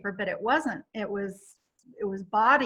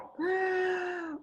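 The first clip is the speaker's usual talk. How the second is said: shocked gasp; 7 semitones higher, 7 dB quieter than usual. Retold or imitated. Shocked at the toilet sight.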